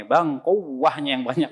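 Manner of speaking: kuahnya drawn slow with heavy pressed accents; overdone nabr. Shown as a demonstration. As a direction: joke order with tajweed emphasis. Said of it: "jangan begitu sama abangnya".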